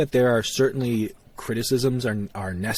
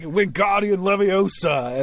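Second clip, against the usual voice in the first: mock spellcasting; 7 semitones higher, slower than usual. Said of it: "you're like".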